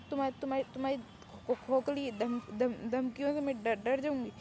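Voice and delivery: trying to sound brave but tripping on every word; stammering in fake bravado; scared stammer. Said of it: "तुम्हारी आवाज़ से ही लग रहा है कि तुम डर रही हो".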